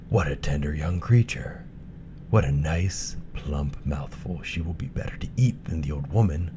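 lightly voiced greedy wolf; a hint of a hungry wolf savouring. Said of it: "The wolf thought to himself".

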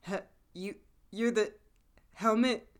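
stammered recognition building to a mock yelp; dawning shock. Retold flashback, dawning realisation.

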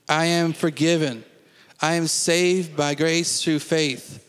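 slow, measured declarations, each line falling firmly; faith confession. Acted. Pastor leading the standing congregation in declarations, measured and firm. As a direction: proclaim every line as settled truth.

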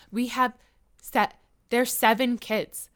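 slow, halting mock Spanish accent; hint at a put-on Spanish accent; fake Spanish accent. Imitating celebrity wife at paparazzi, slow Spanish accent. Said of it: "got that fake Spanish accent".

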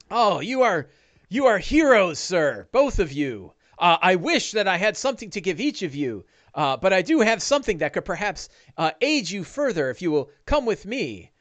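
high, effusive character voice; lilting high-voiced gratitude; grateful farmer Big Al. Game master plays grateful Big Al.

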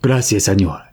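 put-on voice, the speaker faking a South American accent through a voice modulator. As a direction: thank him in a mock South American accent. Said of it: "tries to mimic a, uh, South American accent".

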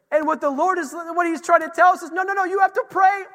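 high, loud proclamation; impassioned preaching. Real, not acted. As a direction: rouse the congregation with full force. Preaches at full force.

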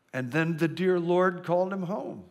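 solemn, churchy hush; lightly voiced pious little boy. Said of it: "says in a very pious voice".

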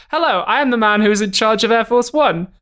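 slow, gloating intercom boast; smug villain announcement. Retold or imitated. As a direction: savor every word, showboating. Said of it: "he comes on the intercom and he's like".

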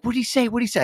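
high, girlish impatient imitation; eager girl voice. Mechanic imitating the daughter overhearing the phone call, high eager voice. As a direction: mimic a kid begging for news.

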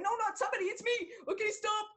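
high-pitched, giggling admission of guilt; laughing confession. Retold or imitated. Confessing to the boss that she broke the door, laughing high. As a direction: own up through bursts of laughter.

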